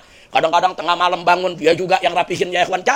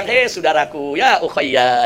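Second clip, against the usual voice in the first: lower, mildly warm address; lightly acted kindly reassurance with a smile; smiling, brotherly; 5 semitones lower, much slower than usual. Caliph consoles a complaining husband, with mild brotherly warmth. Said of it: "Akhirnya Khalifahnya tersenyum".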